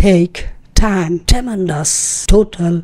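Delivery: take, time, tremendous, total with a ঠ-like T; slow word list with aspirated T. Shown as a demonstration. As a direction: puff of air on each T in take, time, total. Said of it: "try to pronounce it as ট".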